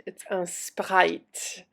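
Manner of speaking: Sprite said the French way, un Sprite with a French nasal un; slow, careful French-accented un Sprite. Shown as a demonstration. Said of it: "with a little French accent".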